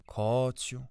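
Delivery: gently coaxing, good-hearted aunt; kindly aunt. A narrator's reading. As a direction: call him kindly, as an aunt. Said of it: "odezwała się ciocia z dobrocią".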